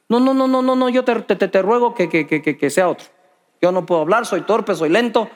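nervous, stuttering pleas to God; stammering Moses. Acted. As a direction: trip over the words, begging.

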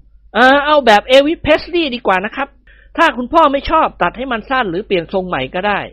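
high, playful voice of a joking son-in-law; cheeky young man. A narrator's reading. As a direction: tease him, then stop short. He picks a singer's style. (ลูกเขยพูดกับพ่อตาแบบทะเล้น เสียงสูง)

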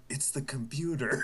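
slow, mock-ominous movie reveal; deadpan slow pronouncement over the credits. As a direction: drag it out like a twist ending. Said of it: "Andy just turns to me and goes".

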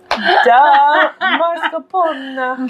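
slow laughing mascarpone. Real, not acted. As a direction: drag it out while laughing. Mock obvious, laughing.

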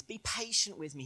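understated begging. A narrator's reading. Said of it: "he begged".

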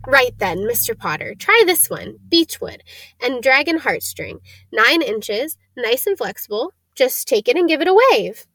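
a hint of an eager old wandmaker; lightly voiced old wandmaker, offering. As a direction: present a wand to a customer, lightly in character.

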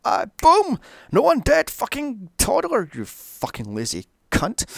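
high, loud, triumphant burst; mock triumphant yell. Real, not acted. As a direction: shout it like the obvious solution. Triumphant punchline in rant.

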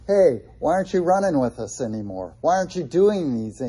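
lightly acted taunt, pitch lifted then falling away; mildly mocking. Old friends to a convert who stopped running with them, mildly mocking. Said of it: "are mocking you and say".

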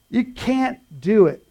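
slow, weighted second take; slow repeat. Shown as a demonstration. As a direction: lean on YOU slowly.

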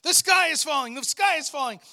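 loud, frantic cry of a little chicken; Chicken Little panicking. Acted. Pastor voicing panicked Chicken Little to the congregation, loud and frantic. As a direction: shout it like the sky is really falling. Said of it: "and he said".

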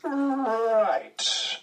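dry English officer. A narrator's reading. Unamused officer after the joke.

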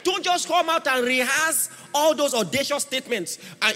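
full-voiced pulpit declaration; preaching shout. Real, not acted. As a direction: preach it with rising fire. Preacher quoting Jesus, building.

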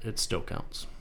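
soft unvoiced repeat; whispering. Real, not acted. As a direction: breathe it to yourself.

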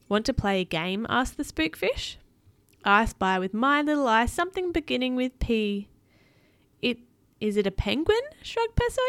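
put-on animated read-aloud for a child; storybook narration; story narration. A narrator's reading.

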